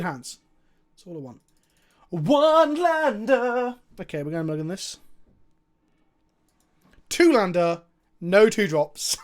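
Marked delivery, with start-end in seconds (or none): 2.1-3.8 loud, high, slowly drawn-out wail of disbelief; outraged shout. Real, not acted. Outraged at opening hand. 7.1-9.2 loud, laughing through the words; laughing shout. Real, not acted. Laughing at bad hand.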